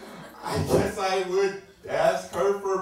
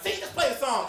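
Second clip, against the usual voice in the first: higher, milder echo of the demand; girl relaying order; 5 semitones higher than usual. Retold or imitated. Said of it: "and the girl's like".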